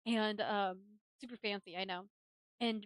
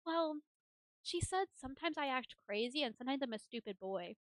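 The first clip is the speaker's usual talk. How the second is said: lightly voiced little boy, higher pitch; James; 3 semitones higher than usual. Young son answering mom at dinner, lightly childlike. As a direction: imitate a child explaining himself. Voicing young son's reply.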